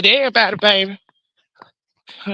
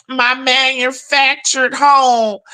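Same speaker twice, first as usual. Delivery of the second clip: slow, proud mock of "My manufactured home"; mocking the neighbor; slower than usual. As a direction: drag out "home" like she's bragging. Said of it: "Baby, you know I waited around to see".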